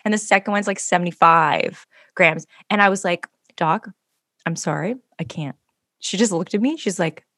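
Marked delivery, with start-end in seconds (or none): 3.5-5.5 fading to soft; pleading. Retold or imitated. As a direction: trail off, apologetic plea. Begging the doctor off.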